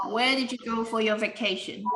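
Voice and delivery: Where did you go for your vacation? said with a falling tone; falling-tone wh-question. Shown as a demonstration. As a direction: let the question drop at the end, asking for new information. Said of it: "the question has a falling tone".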